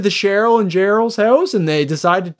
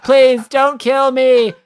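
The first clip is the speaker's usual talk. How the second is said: laughing mock plea; 6 semitones higher, slower than usual. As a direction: beg for life while cracking up. Robot begging, laughing.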